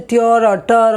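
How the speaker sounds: "tur or tur" with a hard T, no ch; wrong T sound. Shown as a demonstration. Teacher rejects the spelling sound, "tur or tur" said with a plain T. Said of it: "so I won't say".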